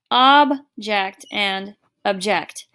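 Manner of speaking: slow OB-ject and ub-JECT; first "Object" stressed at the front, second "object" at the end; noun then verb. Shown as a demonstration. Teacher repeating both forms slowly, shifting the stress. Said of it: "pronounced a little bit different".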